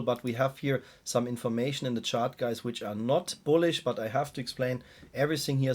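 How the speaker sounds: weak voice from a cold. Real, not acted. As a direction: talk through a cold with a weak voice. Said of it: "Sorry for my weak voice, guys. I'm still struggling here with my cold".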